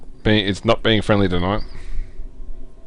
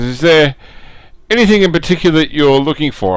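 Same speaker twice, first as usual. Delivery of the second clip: lightly voiced, higher-pitched trader; a hint of an eager-to-help seller, pitched up; merchant's offer; 4 semitones higher than usual. Merchant asks the party what they seek, lightly acted higher voice. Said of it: "looks, uh, to you guys and says".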